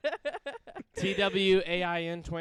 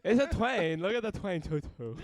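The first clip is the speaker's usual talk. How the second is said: mock exclamation; 5 semitones higher, 4 dB louder than usual. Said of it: "playful high exclamation".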